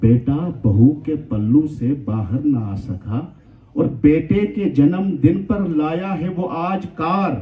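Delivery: declaimed verse with measured pauses; poetry recitation. Acted. Host recites a verse to the gathering, poetry recitation. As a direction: recite the couplet in drawn-out phrases for an audience.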